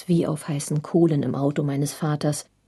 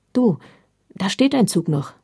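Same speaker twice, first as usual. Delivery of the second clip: glad call; 3 semitones higher than usual. Retold or imitated. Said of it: "rief mein Vater nun erfreut aus".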